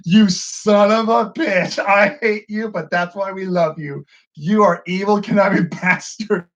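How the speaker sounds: delighted outrage at villain. Retold or imitated. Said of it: "I went".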